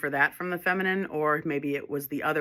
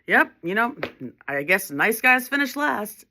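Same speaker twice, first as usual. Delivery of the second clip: higher, louder mocking quote of a resentful nice guy; condescending; 6 semitones higher, 5 dB louder than usual. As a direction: imitate his condescension, pitched up. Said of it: "condescending way".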